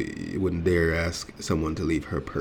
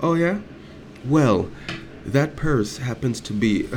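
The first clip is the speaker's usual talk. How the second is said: mock indignant retort; 7 semitones higher, slower than usual. Retorting to store staff.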